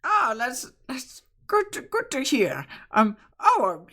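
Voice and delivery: lightly voiced old woman and child; village characters. Bread woman and Riley introducing the group, lightly voiced. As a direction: chatter like townsfolk, stammering.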